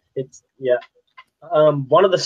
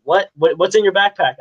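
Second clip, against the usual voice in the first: mildly imitated cop, higher questioning; 5 semitones higher, 4 dB louder than usual. Kid retelling being pulled over, lightly imitating the puzzled cop. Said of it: "They're like".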